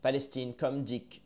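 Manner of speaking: slow prayerful verse reading; solemn poem recital. Acted. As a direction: chant it like a prayer, then let it die away.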